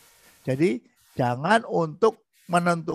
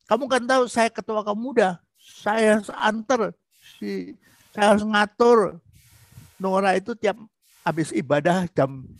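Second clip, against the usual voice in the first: defensive, raised voice. Shown as a demonstration. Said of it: "itu suami itu defensif". (suami membela diri, suara makin tinggi)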